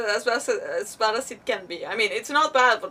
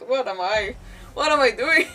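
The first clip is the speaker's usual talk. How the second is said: giggling, louder at the end; laughing at herself; 5 dB louder than usual. Real, not acted. Streamer tripping over words, laughing at herself. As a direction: laugh at your own mess-up.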